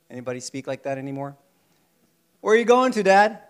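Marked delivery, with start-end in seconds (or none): 2.4-3.4 louder, higher youthful question; curious boy. Acted. A lightly voiced young man asking his father, louder. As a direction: call out to Dad, a bit higher.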